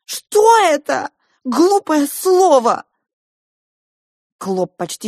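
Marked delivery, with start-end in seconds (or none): 0.0-2.8 furious shout. Acted. Girl rages on.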